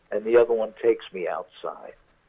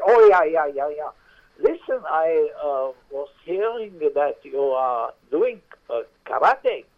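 put-on German accent; 5 semitones higher than usual. Maitre d' quizzing Hank about karate, German accent. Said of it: "with an accent".

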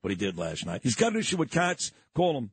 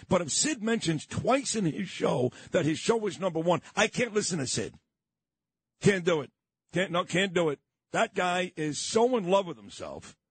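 higher-pitched imitation of a griping listener; mock complaining listener; 3 semitones higher than usual. Host mimics listeners who can't stand his bragging, mock complaining. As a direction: lightly put on an indignant listener's voice.

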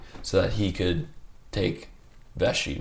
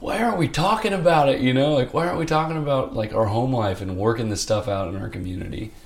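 high, loud tearful pleading; retold crying; 6 semitones higher, 5 dB louder than usual. Asking the psych why nobody talks about it, high tearful plea. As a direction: plead through tears, voice pushed up.

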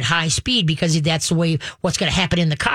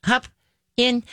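calm command; 6 semitones higher than usual. Shown as a demonstration. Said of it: "Now just calmly say".

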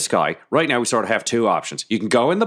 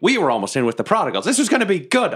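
angry rant; 5 semitones higher than usual. Acted. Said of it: "I just start a rant".

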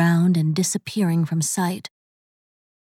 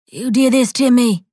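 angry; 4 semitones higher, 5 dB louder than usual. A narrator's reading. Chad accuses Zara angrily.

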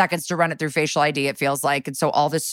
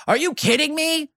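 high disbelieving yelp; mock outrage at being arrested; incredulous protest; 10 semitones higher than usual. Arrested man yelps in disbelief at the cops, high and incredulous.

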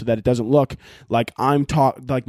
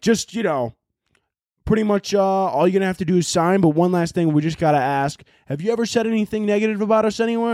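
a touch higher, fast salesy voice; mock sponsor rep; 6 semitones higher than usual. Imagined Bang rep asking him, lightly voiced slick tone.

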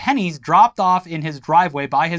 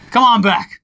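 laughing come on back; 4 semitones higher, 7 dB louder than usual. Pretend. Priest beckoning with laugh.

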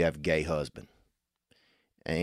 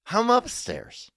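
yelling across the room; slower than usual. Pretend. Mock call out.

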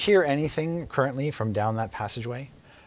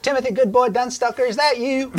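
put-on much higher, louder old woman's voice; old woman Maud; 6 dB louder than usual. GM voicing old Maud greeting the rescuer. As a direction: cackle it as a feisty old woman. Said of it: "Maud says".

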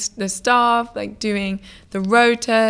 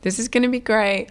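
pep talk; 4 semitones higher than usual. Retold or imitated. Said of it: "gave myself this whole pep talk".

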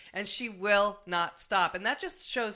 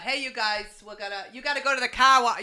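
louder, fast hammed-up Boston accent; Boston accent asked for by a co-host; 7 dB louder, faster than usual. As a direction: rattle it off like a Boston local. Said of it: "Oh, no, wait".

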